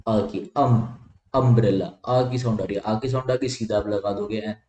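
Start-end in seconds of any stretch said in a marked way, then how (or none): 0.6-1.0 अम as an isolated short "um"; sounding out. Shown as a demonstration. Teacher isolates umbrella's opening vowel, अम said as short "um". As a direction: break off अम as the first sound of umbrella. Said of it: "sound कैसी आ रही है".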